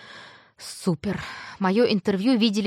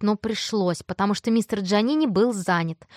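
ordinary delivery

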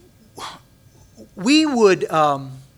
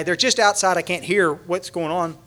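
ordinary talk, nothing marked

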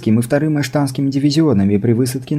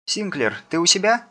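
sci fi communicator; 9 semitones higher, 6 dB quieter than usual. A narrator's reading. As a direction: voice over an intercom. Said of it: "раздался из коммуникатора голос Эдны".

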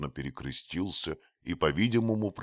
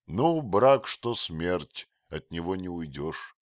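resigned; 4 semitones higher, 7 dB louder than usual. A narrator's reading. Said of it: "покорно проговорил Дик".

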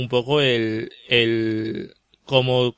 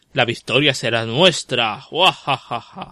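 a hint of a cackling cartoon villain; mustache twirling villain. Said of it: "Es un poco muajaja".

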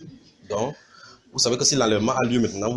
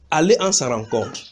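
crying out; 4 semitones higher, slower than usual. Acted. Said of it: "On cria".

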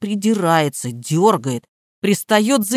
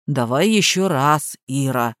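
dull parroting; 7 semitones lower than usual. A narrator's reading. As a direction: repeat it like a parrot, low. Gardener parrots flatly.

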